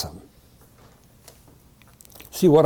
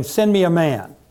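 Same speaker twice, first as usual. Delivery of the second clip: mildly haranguing, higher voice; haranguing challenge; 6 semitones higher than usual. A narrator's reading. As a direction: call out a challenge to an army.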